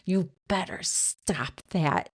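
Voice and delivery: slow, stern mom warning. Retold or imitated. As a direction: scold like a mother. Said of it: "That's my mom voice".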